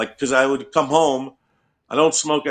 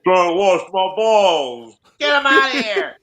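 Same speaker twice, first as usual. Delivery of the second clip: high yelling voice; 6 semitones higher, 4 dB louder than usual. Retold or imitated. Acting out angry yelling staff.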